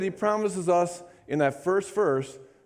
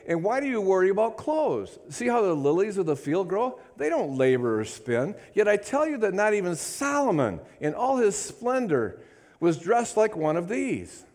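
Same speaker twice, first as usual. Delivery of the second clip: higher, earnest reading of the verses; fervent Bible reading; scripture reading; 4 semitones higher than usual. Acted. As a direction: read the passage as a sermon. Reads scripture with fervour.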